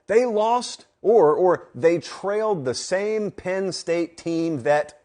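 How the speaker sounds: high, slow sneering imitation of haters; a hammed-up jab at the critics; mocking haters' refrain. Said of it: "Here's what it sounded like to me".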